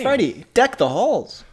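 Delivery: slow, announcer-style radio host. Real, not acted. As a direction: read it like a DJ on air. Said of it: "Why do I sound like, like a radio host?".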